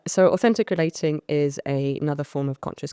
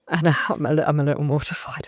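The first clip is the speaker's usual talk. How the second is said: a sheepish, embarrassed whisper; mortified whisper. Real, not acted. Walking into a room of hippies, whispered embarrassment. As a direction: whisper it like you want to disappear.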